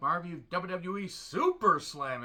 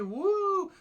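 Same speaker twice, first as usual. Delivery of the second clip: rowdy party animal; 9 semitones higher, 7 dB louder, slower than usual. Pretend. Mock party hype opener.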